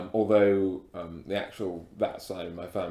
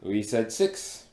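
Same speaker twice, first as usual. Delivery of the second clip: put-on heavy African accent. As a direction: speak with a thick African accent. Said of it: "a kind of very heavy African accent".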